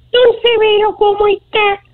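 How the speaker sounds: very high, sweet little angel. Acted. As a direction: chirp it sweetly like a tiny angel. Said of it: "Ay, qué dulce".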